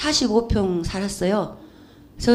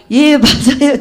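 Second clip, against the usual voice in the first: laughing; 4 semitones higher, 8 dB louder, slower than usual. Real, not acted. Answering Jesus, laughing.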